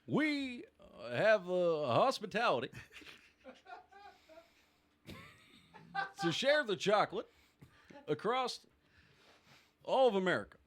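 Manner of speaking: a hint of an Obama speech, half laughing; Obama impression. Asked to do the round as Obama, a light Obama impression. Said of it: "you have to do it as Obama".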